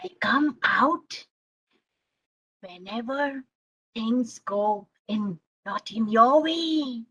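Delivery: slow, looming monster; angry monster. Acted. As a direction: explain yourself in drawn-out monster speech.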